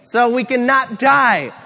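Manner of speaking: excited, rising urgency as if bursting with news; imitated freak-out. Daniel running to tell the king, freaking out. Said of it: "freaking out".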